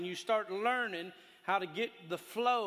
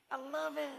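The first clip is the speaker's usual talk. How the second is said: laughing; 4 semitones higher, 7 dB quieter than usual. Real, not acted. Laughing about the joyful man.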